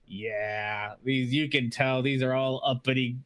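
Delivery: lightly voiced jeering dwarf; mocking dwarf. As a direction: jeer at the uppity visitors. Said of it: "He's like".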